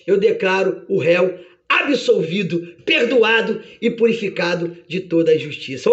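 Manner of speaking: deliberate, lightly acted pronouncement; a hint of a magistrate declaring acquittal; judge's verdict. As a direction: hand down the final sentence solemnly. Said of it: "meritíssimo bate o martelo e diz".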